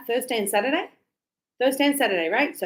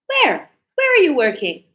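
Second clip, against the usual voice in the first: eager question; 4 semitones higher, 6 dB louder than usual. Acted. Teacher acts eager question.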